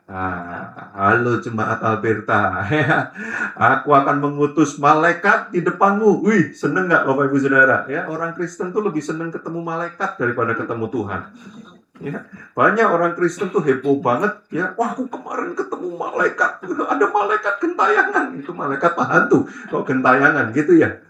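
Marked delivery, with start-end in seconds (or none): 0.1-6.3 God appearing. Pretend. Preacher voices God appearing. 14.8-18.3 mock excitement. Mocking excited Christians.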